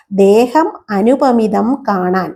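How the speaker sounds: very slow, drawn-out verse; teacher chanting the padam; slow verse recitation. Shown as a demonstration. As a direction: linger over every syllable.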